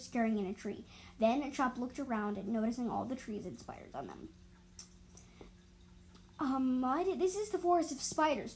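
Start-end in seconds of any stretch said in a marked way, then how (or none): 6.4-8.5 higher, alarmed call-out; alarmed discovery, pitched up; mild yell. Acted. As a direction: beaver calls out about the spiders. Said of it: "Chop yelled".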